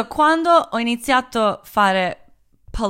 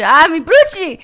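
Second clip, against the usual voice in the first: voicing the sun; 6 semitones higher, 6 dB louder than usual. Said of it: "Il sole mi guarda e dice".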